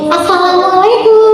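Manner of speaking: put-on child's voice. Shown as a demonstration. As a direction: say hello like a young pupil, up high. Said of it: "kalau anak-anak gimana kalau anak-anak".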